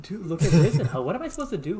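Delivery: laughing loud and high; cracking up while complaining. Real, not acted. Laughing complaint during game.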